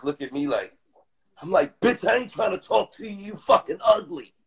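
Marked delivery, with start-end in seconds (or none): 1.8-4.3 raised, higher-pitched comeback, retelling an argument; indignant retort. Retold or imitated. Man retelling his clapback to a rude woman, indignant. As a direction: snap back at her, voice pitched up.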